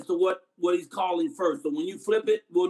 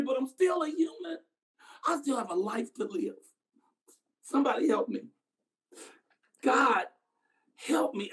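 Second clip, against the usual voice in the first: pleading scream; 5 semitones higher than usual. Acted. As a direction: beg for your life in broken phrases. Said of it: "the Negro screamed out".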